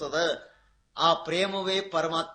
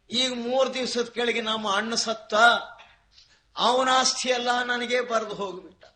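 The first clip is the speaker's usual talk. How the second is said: higher-pitched imitated complaint; mock lament; 5 semitones higher, 3 dB louder than usual. Brother's heir to his friend, mock lament. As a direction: act out a weeper's mild wail. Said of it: "ಮತ್ ಯಾಕೆ ಅಳ್ತಿ?".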